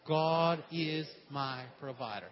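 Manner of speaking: congregation repetition. Shown as a demonstration. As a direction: proclaim it together, slowly. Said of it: "Say it with me".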